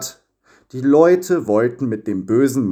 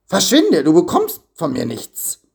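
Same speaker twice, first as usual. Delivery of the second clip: sharp loud yell to slam the door; shouting at the unwanted visitor; 6 semitones higher, 3 dB louder than usual. A narrator's reading. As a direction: shout him away through the crack. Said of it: "schrie Avarizio".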